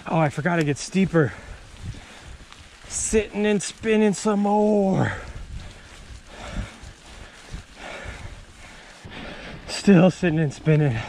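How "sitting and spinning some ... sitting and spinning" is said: slow documentary narrator voice; whispery wildlife film narration; hushed nature documentary. Pretend. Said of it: "Is this a good narrator voice?".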